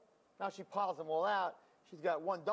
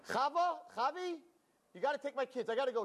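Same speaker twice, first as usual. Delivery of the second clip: high, rushed pleading; panicked neighbor in a hurry; frantic neighbor; 8 semitones higher than usual. Retold or imitated. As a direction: beg her urgently to take the kids. Panicked neighbor begging for help.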